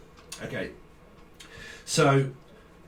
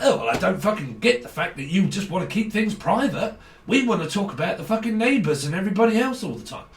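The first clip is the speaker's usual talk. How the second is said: mock nosy gossip; 4 semitones higher than usual. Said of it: "a person around you that".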